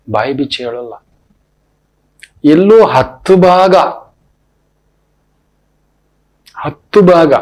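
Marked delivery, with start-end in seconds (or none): 2.4-7.3 emphatic repeat. Real, not acted. Preacher drives home a fraction.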